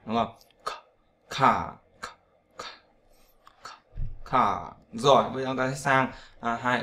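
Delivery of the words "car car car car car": "ca" with no final R; CAR without R. Shown as a demonstration. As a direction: repeat "ca" as separate open syllables. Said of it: "còn một số nơi họ đọc ca". (đọc từng tiếng "ca" không có R)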